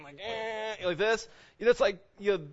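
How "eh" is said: high, quieter creaky "eh"; imitated achy groan. Husband imitating wife's bad back, achy groan. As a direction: mimic a groan at a sore back. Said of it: "like, her back and".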